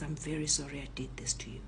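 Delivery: low, soft, hurried sorry; honest apology. Retold or imitated. Robber apologises for what he did, honest and subdued. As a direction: apologise quietly and sincerely. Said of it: "honest at this moment".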